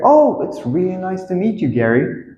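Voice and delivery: high, polite pleasantry; hammed-up polite introduction; acted greeting. Acting out the introduction dialogue.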